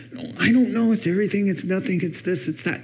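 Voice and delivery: high, trailing lament; mock tearful wife. Crying wife answering husband, mock tearful. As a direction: imitate a wife upset over everything, fading away.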